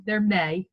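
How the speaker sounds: "may" leaned on and held a little; stress on MAY. Retold or imitated. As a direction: put clear emphasis on the word "may". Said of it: "with an emphasis on the word may".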